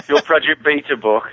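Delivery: British pronunciation of Beta as "beeta"; English accent. Shown as a demonstration. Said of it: "That's my English accent if people don't understand".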